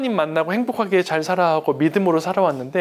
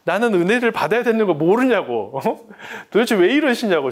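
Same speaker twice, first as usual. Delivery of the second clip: loud, raised complaint at God; angry prayer; 6 semitones higher, 5 dB louder than usual. Retold or imitated. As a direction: rant at God like a sulking child. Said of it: "막 화를 내는데".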